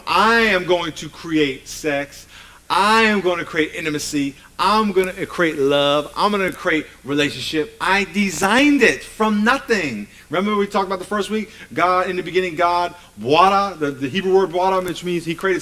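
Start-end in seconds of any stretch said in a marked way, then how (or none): 0.1-10.1 slow, emphatic preacher voicing the Creator; God's declaration. Preacher as God announcing what He will create, emphatic declaration. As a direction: proclaim each creation deliberately, building to a firm finish.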